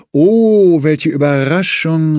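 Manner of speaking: high, loud, hammed-up surprise; overplayed Oh, welche Überraschung; mock delighted exclamation. A narrator's reading. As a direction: cry out in fake delight at the door. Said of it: "rief ich aus".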